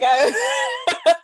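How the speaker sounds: high, loud excited cry; squealing with excitement. Real, not acted. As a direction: blurt it out with a laughing shout. Excited overlap, laughing shout.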